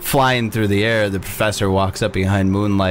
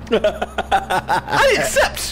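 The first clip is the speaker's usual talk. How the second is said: high, slow, laughing; delighted pixie with laugh; 11 semitones higher, much slower than usual. Acted. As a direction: accept with a tiny giggle.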